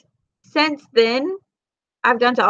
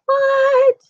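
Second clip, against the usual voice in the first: baffled what; 14 semitones higher, 3 dB louder than usual. Retold or imitated. Exasperated at the baby in Walmart.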